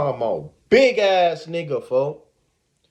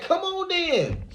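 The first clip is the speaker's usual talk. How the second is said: imitating the buff dude; 12 semitones higher, 5 dB quieter, slower than usual. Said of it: "Folks get that".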